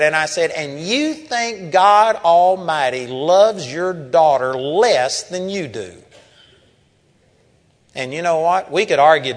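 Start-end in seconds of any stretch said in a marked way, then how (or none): 0.5-6.0 slow, emphatic imitated retort; retold challenge. Preacher answering the angry father about God's love, retold challenge. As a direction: drive the question home, loud at first.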